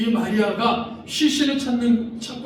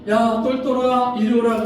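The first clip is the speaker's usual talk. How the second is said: shepherd calling a sheep; 4 semitones higher, 3 dB louder than usual. Acted. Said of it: "똘똘이라고 그러시다".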